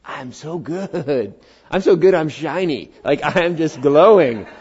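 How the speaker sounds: preen like you're shiny; lightly hammed-up self-satisfied voice; smug self-praise. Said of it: "you going".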